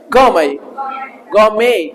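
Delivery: गौमय ending in an open "may", no T; silent T. Shown as a demonstration. Teacher drilling the word for students, गौमय with silent T. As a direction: say गौमय twice, leaving the T silent. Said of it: "टी silent है".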